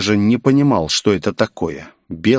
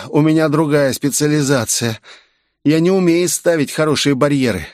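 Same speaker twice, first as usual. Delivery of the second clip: put-on higher, lighter young girl's voice; 6 semitones higher than usual. A narrator's reading. Girl stepping out from the corner, higher girlish voice. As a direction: play the cheerful girl.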